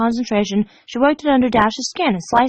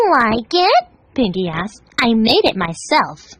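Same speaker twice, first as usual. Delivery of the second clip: proud Pinkie; slower than usual. Acted. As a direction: show off your handiwork. Pinkie voice in the story.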